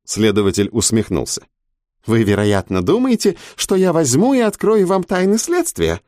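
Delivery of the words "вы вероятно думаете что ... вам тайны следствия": sneering, pitched high and sing-song; mock him with a high taunting lilt. A narrator's reading. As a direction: investigator mocking the prisoner's question. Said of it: "издевательски спросил он".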